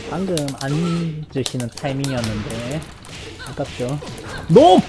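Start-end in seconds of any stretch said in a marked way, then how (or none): 4.5-4.8 high, loud clipped callout; sharp shout. Real, not acted. Streamer yelling at a high attack. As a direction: bark it at the screen twice.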